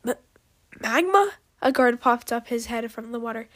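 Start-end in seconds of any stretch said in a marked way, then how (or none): 0.1-1.3 high, loud questioning call; surprised rise on the name; startled. A narrator's reading. Guard startled to see missing dragon.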